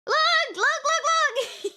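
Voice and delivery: high, slow, laughing calls of look; excited squeal. Real, not acted. Fan urging chat to look at the art, excited squeal. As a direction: urge them, giggling, to look.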